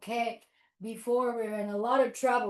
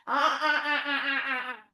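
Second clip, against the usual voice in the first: quick chattering ape calls; monkey hoots tailing off; monkey hooting; 3 semitones higher, faster than usual. Pretend. Monkey hopes for another banana, chattering hoots.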